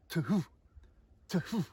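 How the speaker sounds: "to-hoo" said as two separate notes, softly. Shown as a demonstration. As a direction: split "to-hoo" into a "to" then a "hoo". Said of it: "you hear the two notes".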